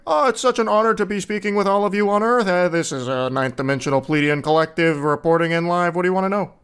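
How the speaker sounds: a touch of gushing, high opening then settling; lightly voiced alien spokesman, honored to address Earth; mock channeling, formal then casual; reverent channeled alien. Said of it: "It's always like".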